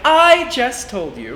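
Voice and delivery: high, loud, slow whine; whiny voice. Shown as a demonstration. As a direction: whine like an annoyed kid.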